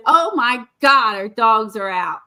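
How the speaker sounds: loud alarmed shout, husband spotting dogs; retold alarm. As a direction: call it out in a panic. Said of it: "and then he goes".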